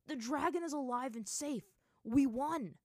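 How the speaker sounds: high, loud victory cheer; joyful shout. A narrator's reading. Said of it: "Zuko was the first to shout in joy".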